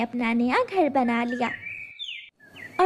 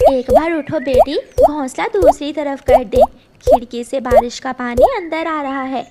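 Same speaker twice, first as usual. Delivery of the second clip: louder, hurried call to get up; urgent call; 7 dB louder than usual. Acted. Mama tells her daughter to move the nest from the window, urgent. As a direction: hurry her daughter away from the rain. Mama warns of rain coming in.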